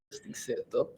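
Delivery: light mock Russian accent. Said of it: "I can do Russian accent".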